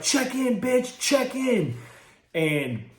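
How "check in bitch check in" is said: mock tough threat. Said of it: "They're like".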